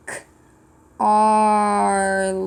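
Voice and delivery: teacher sounding out a name. Shown as a demonstration. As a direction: sound out "K-, Arly" piece by piece. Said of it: "Let me try and sound it out".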